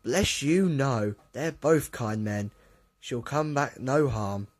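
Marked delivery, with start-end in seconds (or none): 1.3-4.5 calm their worry unhurriedly; gentle, slow reassurance; reassuring. A narrator's reading. Crew reassuring anxious Duck.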